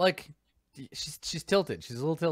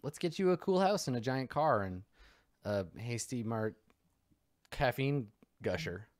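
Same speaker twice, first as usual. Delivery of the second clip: salesy recruiter. Retold or imitated. Elixir recruiters welcoming refugees at the camps, cheery and salesy. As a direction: greet the refugees like a game show host.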